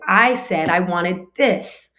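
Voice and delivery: loud, slow, pointed complaint; mock indignant protest, drawn out; rude child. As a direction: imitate a rude kid demanding, stressing each word. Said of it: "He had a rude tone of voice".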